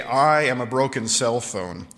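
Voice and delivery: I am a broken cell phone with I lifted and leaned on; I pressed, the rest even; stress on I. Shown as a demonstration. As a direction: lean hard on the first word, I. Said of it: "I want you to emphasize the word "I".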